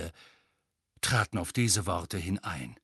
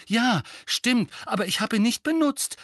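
higher, louder, indignant; angry Harry; 12 semitones higher, 6 dB louder than usual. A narrator's reading. Harry protests to his uncle, angry. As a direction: protest hotly. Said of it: "begann Harry zornig".

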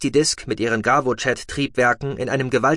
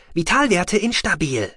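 a higher, mechanical machine voice; rasping med box; 8 semitones higher than usual. A narrator's reading. The medical box reporting vital signs in a mechanical rasp. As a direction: sound like a rattling medical device reading out. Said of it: "schnarrte die Box".

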